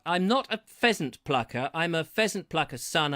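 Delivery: tongue twister at a measured pace; careful tongue twister. Shown as a demonstration. Host trying a pheasant tongue twister, measured pace. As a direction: recite it carefully, not rushing. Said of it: "have to say it a bit faster than that".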